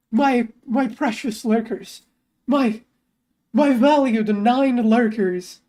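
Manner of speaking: slow, savoured mock devotion; mock doting. Streamer addressing the lurkers, slow and mock doting. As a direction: draw out each word possessively.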